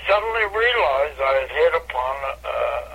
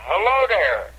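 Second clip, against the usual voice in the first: high, bright stage greeting; comedian's signature hello; catchphrase greeting; 7 semitones higher, slower than usual. Retold or imitated. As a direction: sing out the catchphrase to the crowd. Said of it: "I went".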